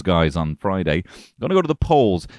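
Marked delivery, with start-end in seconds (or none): 1.4-2.3 high and loud on the polls; booming pun setup; louder emphasis. Acted. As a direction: hammer the phrase for the pun.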